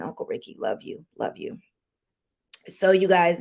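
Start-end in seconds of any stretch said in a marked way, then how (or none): 0.0-1.6 soft whispered goodbye to a lost uncle; whispered farewell. Real, not acted. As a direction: breathe it out as a private goodbye. Tearful farewell to late uncle.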